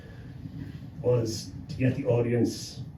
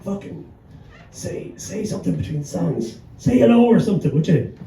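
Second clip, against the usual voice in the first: hecklers; 6 semitones higher, 4 dB louder than usual. Retold or imitated. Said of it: "the two guys were like".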